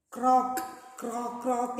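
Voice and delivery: sing-song frog croaking; frog croaks. Shown as a demonstration. Teacher showing the children how a frog croaks, sing-song. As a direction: croak like a frog, a little tune to it. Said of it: "like that it will make noise".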